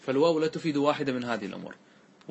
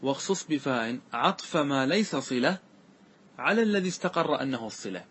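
reciting verse. Shown as a demonstration. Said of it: "قال".

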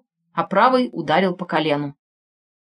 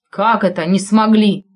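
stunned; 3 dB louder than usual. Acted. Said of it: "потрясённо уставился".

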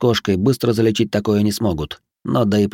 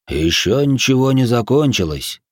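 annoyed; 3 semitones higher than usual. Acted. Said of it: "нотки досады".

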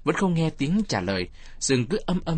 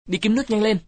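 loud, high-pitched urgent order; commanding; 10 semitones higher, 5 dB louder than usual. A narrator's reading. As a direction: call it out like an order. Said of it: "Thằng Toàn nói như ra lệnh". (ra lệnh to, giọng cao)

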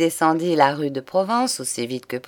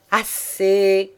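sharp interruption; 4 semitones higher, 3 dB louder than usual. A narrator's reading. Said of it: "interrompit Juliette".

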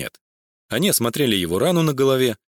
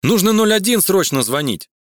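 high, loud panicked shouting; 8 semitones higher, 5 dB louder than usual. A narrator's reading. Max to Galya at the sight of blood, panicked and loud. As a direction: blurt it out in alarm.

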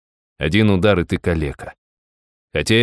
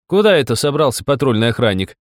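loud theatrical surprise; loud mock astonishment; 6 semitones higher than usual. A narrator's reading. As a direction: feign shock loudly. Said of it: "изумился я так громко".

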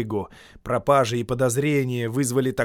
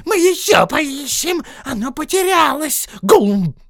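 Gollum hissing; 10 dB louder than usual. Acted. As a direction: hiss it dismissively. Gollum keeps searching.

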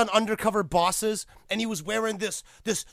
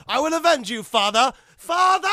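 hammed-up vow; 5 semitones higher, 6 dB louder than usual. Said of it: "talking to Jen".

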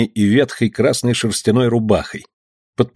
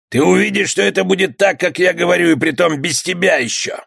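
threatening bandit; 7 semitones higher than usual. Acted.

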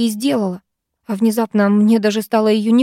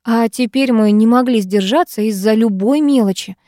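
ordinary delivery, nothing marked

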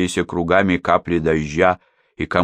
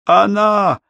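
shouting; 14 semitones higher, 4 dB louder than usual. Acted. Henning yelling in storm.

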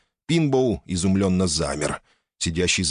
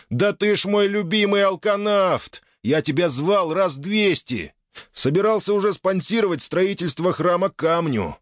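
overjoyed shouting; 9 semitones higher than usual. Acted. Healer hugs found friend.

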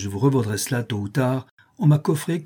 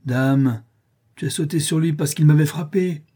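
frightened plea; 5 semitones higher, 3 dB louder than usual. Acted. Potter distraught, pleading.

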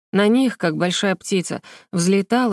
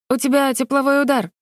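exclaiming; 6 semitones higher than usual. A narrator's reading. Alina rushing into the water after Vera, exclaiming. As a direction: cry out in alarm. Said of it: "воскликнула Алина".

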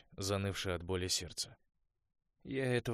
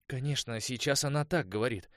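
ordinary delivery

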